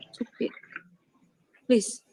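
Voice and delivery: Stupid said quietly as one word after spelling it out; said softly. Shown as a demonstration. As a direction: drop the voice and say Stupid as a single word. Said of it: "S T U P I D".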